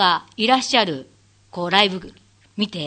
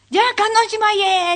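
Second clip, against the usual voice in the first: brisk handover; 12 semitones higher, 5 dB louder, much faster than usual. Retold or imitated. Handing over the stage.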